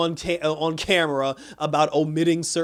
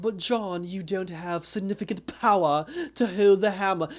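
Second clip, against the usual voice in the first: AI voice; 3 semitones higher than usual. Retold or imitated. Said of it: "the A I voice was like".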